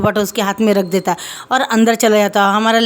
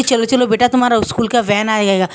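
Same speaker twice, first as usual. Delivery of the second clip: plain reading voice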